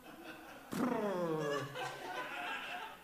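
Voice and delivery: laugh. Real, not acted. Laughs at silly disciples remark.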